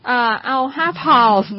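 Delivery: put-on slow order with an English-accented "pounds". Co-host pretending to order at a cake shop, English accent. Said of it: "ถ้าเกิดไป accent ว่า".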